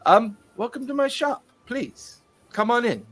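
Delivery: fussy, excitable shopkeeper; eager tinkerer voice. Acted. Tinkerer NPC welcomes guests.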